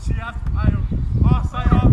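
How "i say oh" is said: high loud posh exclamation; mock posh voice. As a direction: squeal it like a posh lady.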